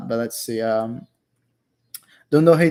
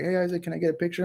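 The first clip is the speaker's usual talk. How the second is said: higher, quick fan request; imitated eager fan; 5 semitones higher, 3 dB quieter, faster than usual. Viewer asking the famous streamer for a picture, lightly imitated fan. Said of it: "one of you guys shows up".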